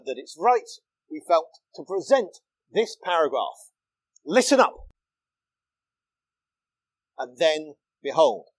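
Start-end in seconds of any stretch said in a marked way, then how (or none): 4.3-4.7 higher and louder, punching LISTEN; emphatic listen up. Shown as a demonstration. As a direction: call it out like a summons to the crowd. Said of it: "a real emphasis on that word listen".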